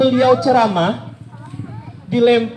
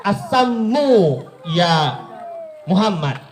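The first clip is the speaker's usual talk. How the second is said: sneering curse; 3 dB quieter, much slower than usual. Retold or imitated. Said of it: "dibilang sama Arab Badui tadi".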